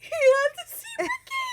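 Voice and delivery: high, loud, tearful wail; choked-up high-pitched sob-talk; retold crying. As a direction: replay the moment you broke down in the car. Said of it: "I cried".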